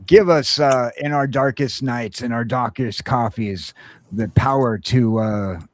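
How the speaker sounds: a hint of a hero's solemn oath, played for laughs; half-hearted hero oath to end the show; mock solemn oath. Parodies the Green Lantern oath.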